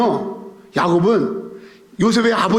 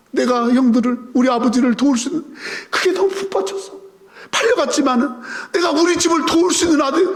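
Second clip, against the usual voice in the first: a touch of real tears rising higher; tearful Joseph; 4 semitones higher than usual. Acted. Joseph weeping over helping his father, with tears. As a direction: Joseph choking up, half-weeping the words. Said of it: "막 우는 거야".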